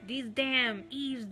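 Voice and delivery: mock insult. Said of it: "cursing me out".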